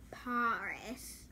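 put-on drawn-out PARIS in a playful Parisian accent; mock Parisian accent. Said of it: "Paris people talk like this".

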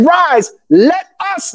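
slow, weighty "Rise, let us". Shown as a demonstration. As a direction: draw out "Rise, let us" word by word. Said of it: "He's saying".

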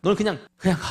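acted exasperated divine scolding; heated, emphatic telling-off, building at the end; angry God. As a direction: order him off, losing patience. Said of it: "이렇게 하나님이 화를 내십니다".

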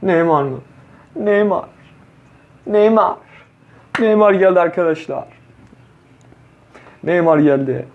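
thrilled shouting; excited shout. Real, not acted. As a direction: cry out in delight at the lucky pull. Star player unexpectedly pulled.

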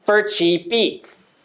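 slow "for cheap eats" with "for" weak and short; unstressed "for" in "for cheap eats"; reduced for. Shown as a demonstration. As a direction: swallow "for", linking into "cheap eats". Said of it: "forぐらいにしてください".

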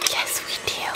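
fake ASMR accent. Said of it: "this is the A S M R fake accent".

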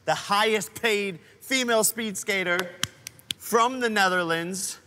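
building hype announcer voice; grand announcer intro. Acted. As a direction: announce her like a champion. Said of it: "you finally said it right".

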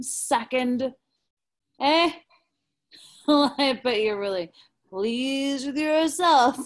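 slurring, jeering with laughs; drunk. Acted. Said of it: "He is very drunk".

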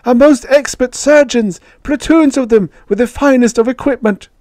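very high, loud creature voice; high-pitched alien hiss. A narrator's reading. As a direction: squeal it like an eager little alien. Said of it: "hissed Yith".

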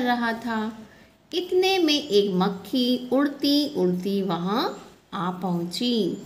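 measured classroom reading voice; slow storybook reading. Acted. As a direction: read it out slowly to the class, word by word. Teacher reads book aloud. (बच्चों को धीरे-धीरे कहानी पढ़कर सुनाना)

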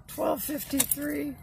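hoarse, losing her voice. Real, not acted. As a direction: voice going hoarse and worn. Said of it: "Losing my voice".

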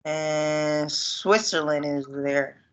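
slow repeat. Real, not acted. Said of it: "repeat after teacher".

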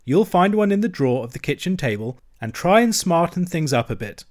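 rally a downhearted friend; cheery bustle. Acted. Rat cheering up gloomy Mole.

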